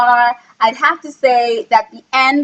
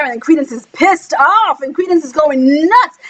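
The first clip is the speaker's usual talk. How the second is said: excited emphasis; 4 semitones higher than usual. Real, not acted. Dramatising the battle.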